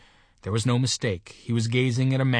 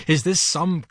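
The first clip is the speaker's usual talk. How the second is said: higher, slow, outraged question; thundering rage; 6 semitones higher, 3 dB louder than usual. A narrator's reading. Mister Button accuses the nurse, raging. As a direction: hammer out each word in outrage. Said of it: "thundered Mister Button, his terror resolving into rage".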